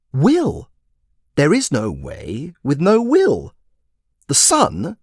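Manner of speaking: put-on high, emphatic, slow old wizard; lecturing wizard. Wizard lecturing the commander on magic, high and grand. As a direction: proclaim it like a grand sage.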